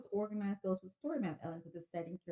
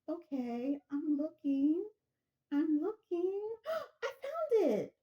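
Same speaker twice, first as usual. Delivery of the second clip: high, louder, rising to a gasp of discovery; excited caller; 8 semitones higher, 4 dB louder, much slower than usual. Acted. Caller searching the passage, high and excited. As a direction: search eagerly then gasp in delight.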